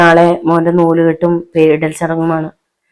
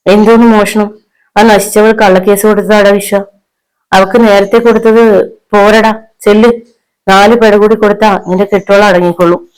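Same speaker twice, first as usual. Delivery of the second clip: higher, indignant mother; worked-up rage; 4 semitones higher, 5 dB louder than usual. A narrator's reading. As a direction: goad your son angrily. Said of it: "ജാനമ്മയ്ക്ക് ആകെ വിറഞ്ഞു കയറി".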